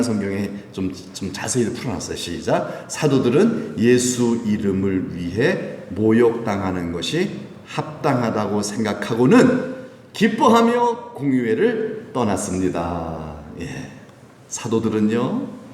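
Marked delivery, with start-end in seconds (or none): 2.9-13.3 slow, measured recitation; scripture reading. Real, not acted. Pastor leads congregation through Acts, slow recitation. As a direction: read the verse out deliberately for all to follow.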